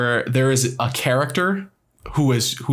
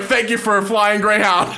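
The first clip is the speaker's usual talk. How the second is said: Waterboy voice; 6 semitones higher than usual. Retold or imitated. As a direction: ham up a dim, excited Waterboy voice. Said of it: "He's like a fucking water boy".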